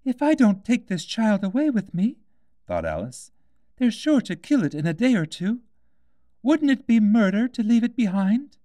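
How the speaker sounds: put-on high girl's voice, anxious; worried Alice. A narrator's reading. Alice worries about the baby's safety, in a high anxious girl's voice. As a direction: fret aloud like a young girl.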